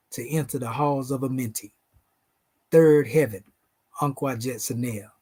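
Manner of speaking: measured, ceremonial recitation of sacred names; solemn invocation. Acted. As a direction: intone it like a prayer at an altar.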